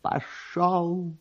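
sharp, high desperate cry to the driver; desperate cry urging the cabman on; desperate shout. A narrator's reading. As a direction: yell it out in despair. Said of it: "закричал отчаянным голосом".

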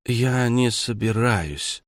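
talking with a mouthful; words round a bite of pizza; mouth full. Acted. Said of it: "сказала она с набитым ртом".

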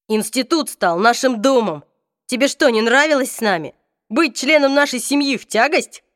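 hurt outburst. Acted. Hurt reproach to Hodge.

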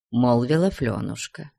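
ordinary delivery

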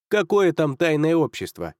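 talking round a pipe in the teeth; words through a clenched pipe stem; pipe in mouth. Acted. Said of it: "зажав трубку в зубах".

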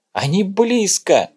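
high, slow, frantic cry; panicked cry between gasps; breathless shout. Acted. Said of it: "задыхаясь, прокричала Марта".

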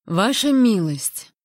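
slow, loud indignant call; indignant exclamation. Acted.

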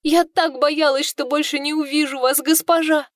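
высоко, медленно, навзрыд причитать; плачущий голос сквозь слёзы; причитая. Acted. Служанка причитает со слезами. (служанка причитает перед госпожой, со слезами)

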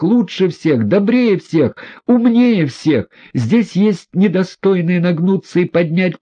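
high, building, impassioned tirade; furious indignation. A narrator's reading. Aglaya rebukes the humble prince in high indignation. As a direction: pour out praise and reproach in fury. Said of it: "в последней степени негодования".

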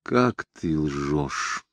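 тихо, ниже и медленно; едва слышно, с горечью; совсем тихо. Acted. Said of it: "сказала она тихо, совсем тихо". (Харри совсем тихо упрекает Криса во лжи)

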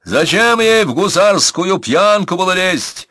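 bursting through the pain; biting down on pain. A narrator's reading. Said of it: "сдерживая крик".

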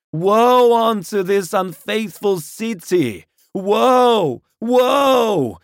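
high, loud prophet of doom; far-carrying loud proclamation. A narrator's reading. Curate bears witness against the city, high declamatory shouting. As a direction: cry out each woe long and loud. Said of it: "in a tone that must have reached the pit".

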